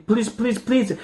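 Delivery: rising, begging pleases; pleading. A narrator's reading. A boy begs his parents again, pitch rising. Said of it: "cried Toby".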